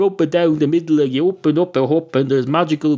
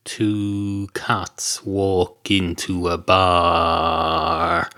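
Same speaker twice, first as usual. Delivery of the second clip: slow joke opener; 4 semitones lower, much slower than usual. Acted. Joke opening line.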